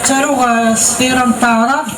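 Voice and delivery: measured verse delivery, line by line; recited poem with cadenced line endings; poetry recitation. Acted. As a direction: declaim the poem, pausing after each line. Recites verse after chatting.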